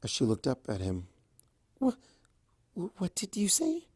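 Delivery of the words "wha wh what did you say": stammered breathless whisper; stunned whisper. A narrator's reading. Fluttershy stunned by Discord's confession, whispering. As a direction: gasp it out, caught off guard. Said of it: "surprised at his words".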